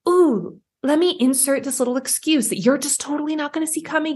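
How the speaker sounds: lightly sly trickster voice; sneaky. Pretend. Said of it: "sneaky sneakiness".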